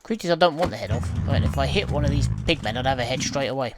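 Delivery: loud, frustrated game rant. Real, not acted. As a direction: raise your voice in frustration.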